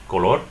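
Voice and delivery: Spanish color stressed on -LOR; last-syllable stress. Shown as a demonstration. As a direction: say co-LOR, leaning on the final syllable. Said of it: "Stress the last syllable".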